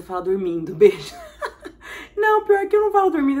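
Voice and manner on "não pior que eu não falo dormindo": high, loud amused protest; squeaky, amused outburst; laughing denial. Real, not acted. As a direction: deny it straight out of a laugh. Laughs at sleep-talking guess.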